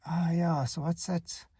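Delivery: casually fishing for the word; feigned forgetfulness. Acted. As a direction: act as if the word has slipped your mind. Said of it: "pretend that I don't know the word".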